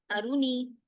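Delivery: आरूनी rushed with the वाव dropped; read too fast. Shown as a demonstration. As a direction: clip आरूनी short. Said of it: "अगर मैं इसको तेजी से पढ़ूंगी". (तेज़ी से, वाव गिराकर आरूनी)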